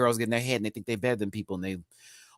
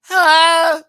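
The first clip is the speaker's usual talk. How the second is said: high hello; 14 dB louder than usual. Real, not acted. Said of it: "dramatic greeting".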